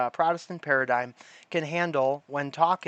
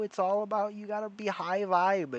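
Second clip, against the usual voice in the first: New Age bro; 6 semitones higher, 4 dB quieter than usual. Pretend.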